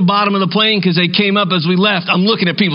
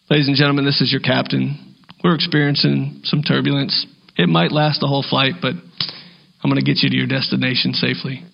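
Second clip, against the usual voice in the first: softer, lower, calm pilot on the intercom; calm captain; 4 semitones lower, 3 dB quieter than usual. Retold or imitated. Captain calms passengers over intercom, low and calm. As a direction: reassure the cabin like a steady captain. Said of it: "calm as can be".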